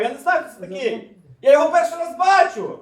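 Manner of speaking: high, loud protesting shout; Peter. Acted. Disciple insisting he has never seen him, shouting. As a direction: build the denial to a full shout. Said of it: "Петро кричав".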